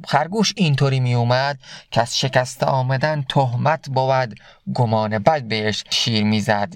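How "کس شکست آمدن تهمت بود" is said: slow, measured reading of Rumi's verse; slow verse recitation. Acted. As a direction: recite the couplet slowly, letting each word land. Recites Masnavi verse slowly. (شعرخوانی آرام و شمرده)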